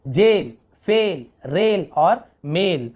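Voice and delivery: जेल, फेल, रेल, मेल slowly, vowels drawn out; slow model words जेल, फेल, रेल, मेल with long vowels; long A word list. Shown as a demonstration. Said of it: "थोड़ा लंबा ए ऐसे उच्चारण हो रहा है".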